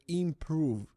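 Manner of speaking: "improve" given a firm, falling stress. Shown as a demonstration. Coach stressing "improve" to viewers, firm falling stress. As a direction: lean into the word "improve" and let it drop. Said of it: "And I emphasize the word here".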